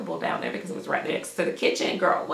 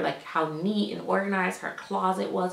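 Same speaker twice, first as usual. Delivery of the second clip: ordinary delivery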